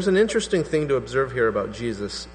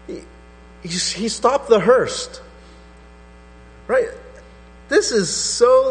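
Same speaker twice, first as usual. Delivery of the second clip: fervent preaching; 7 semitones higher, 4 dB louder than usual. Real, not acted.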